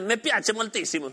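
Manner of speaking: slow Italian phrase; Italian accent. Shown as a demonstration. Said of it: "en italiano es".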